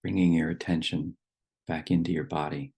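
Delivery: calm instructions with long pauses between phrases; guided meditation. Real, not acted. Leading the group to settle in their seats, guided meditation. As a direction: guide them gently into the body, leaving long silences.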